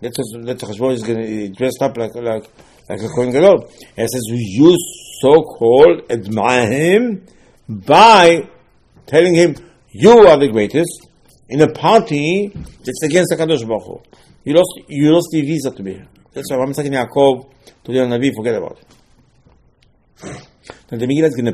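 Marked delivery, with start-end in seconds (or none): 4.3-16.1 louder, scolding preacher; loud rebuke. Retold or imitated. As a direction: drive home the reproach with force. Mordechai rebukes the party-goer.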